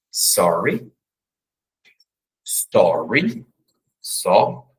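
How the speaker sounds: "Sorry" com R enrolado americano; língua enrolada no R de "sorry"; English sorry. Shown as a demonstration. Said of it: "Olha o som do R aí". (sorry com R retroflexo)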